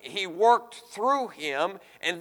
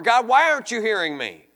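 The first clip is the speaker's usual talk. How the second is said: quick, louder mock complaint to God; imitated crying out; 3 semitones higher, 5 dB louder, faster than usual. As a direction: hurl the question upward, half acted. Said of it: "They're crying out".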